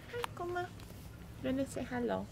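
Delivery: high, soft voice for the cat; pet talk. Real, not acted. Greeting the sleeping cat.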